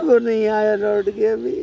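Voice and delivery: slow, tearful answer; weepy and dragging; acted crying. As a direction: answer through drawn-out sobs. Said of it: "तो तुम क्यों रो रहे हो फिर".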